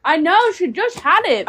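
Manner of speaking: speech thick from a mouth guard; wearing a mouthguard. Real, not acted. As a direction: talk with a guard in your mouth. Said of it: "I've got a mouth guard".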